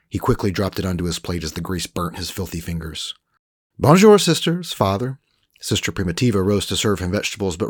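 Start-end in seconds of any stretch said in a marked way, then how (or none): 3.8-5.2 higher, louder French greeting; Frenchman Rolf greeting. Acted. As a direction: greet them brightly as Rolf.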